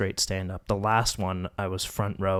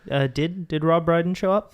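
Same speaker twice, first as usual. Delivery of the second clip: excited; 9 semitones higher, 6 dB louder than usual. Real, not acted. Eager question about Rob Brydon.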